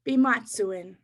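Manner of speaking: Bimatsuin said slowly and clearly; Bimatsuin, each syllable given space; slow Cree word. Shown as a demonstration. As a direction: model Bimatsuin for the audience. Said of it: "Let's try that again".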